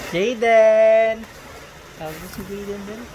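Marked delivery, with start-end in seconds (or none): 0.1-1.2 loud drawn-out name call. Real, not acted. Calling out to a child.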